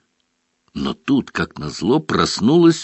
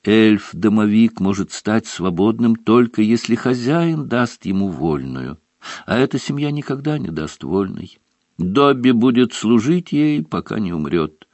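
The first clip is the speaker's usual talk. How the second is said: house elf voice; 3 semitones higher than usual. Acted. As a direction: speak as a meek house elf. Dobby speaks.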